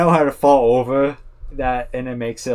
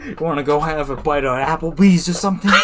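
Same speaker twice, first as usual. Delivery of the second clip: mock invite; 5 semitones higher than usual. Continuing parody.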